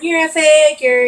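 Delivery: taunting. Retold or imitated. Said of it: "my dad just kept saying".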